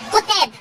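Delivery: "كتاب" opening on a short "ku"; u after the k. Shown as a demonstration. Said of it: "كتاب بضم الكاف".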